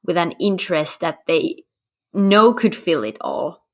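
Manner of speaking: hoarse, fading voice giving out; losing voice. Real, not acted. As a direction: voice cracking and going. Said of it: "Sorry, I'm losing my voice".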